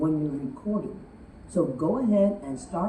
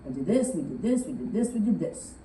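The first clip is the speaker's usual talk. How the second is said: dull report. Shown as a demonstration. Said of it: "a report".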